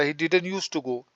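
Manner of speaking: slow, careful model sentence; slow dictation. Shown as a demonstration. Teacher slowly models the English negative for students, deliberate. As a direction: say it slowly so students can copy. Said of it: "वो नहीं जाता था".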